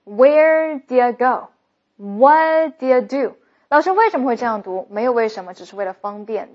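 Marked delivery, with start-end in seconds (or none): 0.0-3.3 slow demo with "dear" said as a weak "d'ya"; reduced do you. Shown as a demonstration. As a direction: squash "do you" into "d'ya" mid-question. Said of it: "这两种叫dear". (do you 弱读成 d'ya，慢速示范)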